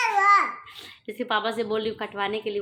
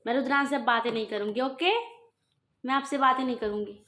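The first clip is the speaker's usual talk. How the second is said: mock sulk; 3 semitones higher than usual. Mother mock-sulks at baby.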